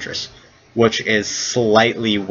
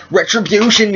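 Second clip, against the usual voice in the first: high comic war cry; hammed-up old-geezer proclamation; old man's battle cry; 11 semitones higher, 3 dB louder than usual.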